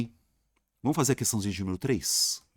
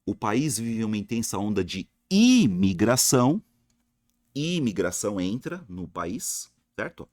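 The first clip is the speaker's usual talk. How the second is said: ordinary delivery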